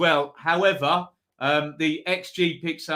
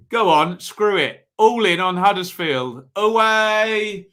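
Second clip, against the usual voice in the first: louder, rising excitement as he commits; all in; 4 semitones higher, 6 dB louder than usual. Real, not acted. Streamer commits to the away win for viewers, loud and excited. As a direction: throw caution to the wind and shout the pick. Talks himself into a bold pick.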